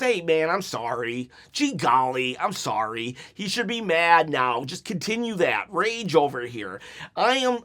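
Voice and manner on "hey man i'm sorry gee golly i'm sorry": lower, soft, limp sorry; a hint of a feeble sheepish apology; mock meek apology. Mocking the wrestler's limp apology, meek and soft. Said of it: "but not just".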